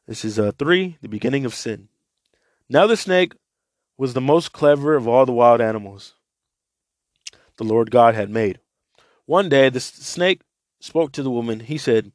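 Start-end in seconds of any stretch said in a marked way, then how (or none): 2.7-12.1 a raised, steady read-aloud voice; scripture reading to listeners; Bible reading. Acted. Reads Bible passage aloud.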